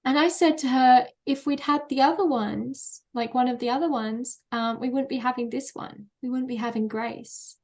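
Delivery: speaking through held-back tears; after crying. Real, not acted. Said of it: "I'm gonna get teary".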